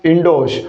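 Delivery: "इंडोस" with no r sound; correct pronunciation. Shown as a demonstration. Teacher repeats for students the correct "इंडोस", r silent. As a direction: say "इंडोस" with long o straight into s. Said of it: "उच्चारण बोला मैंने".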